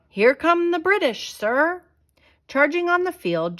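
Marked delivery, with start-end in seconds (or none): 0.1-1.8 high, loud alarm call; sentry crying out a warning; sentinel's cry. A narrator's reading. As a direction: shout the warning across the fort. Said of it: "a sentinel cried out".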